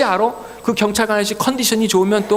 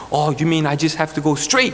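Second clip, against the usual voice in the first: slow, deliberate English question, rising at the end; slow careful repeat; 5 semitones lower, much slower than usual. Retold or imitated. Driver echoing the officer's English slowly. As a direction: spell it out slowly so he's sure you understood. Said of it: "그분이 던진 영어 질문을 똑같이".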